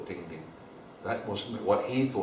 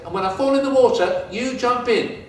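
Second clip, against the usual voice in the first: high, louder, quick excited voice; Ding Ding eagerly explaining, high and fast; eager plan; 10 semitones higher, 7 dB louder than usual. Acted. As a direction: rush out the plan.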